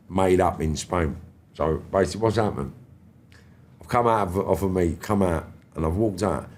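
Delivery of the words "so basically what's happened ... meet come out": ordinary talk, nothing marked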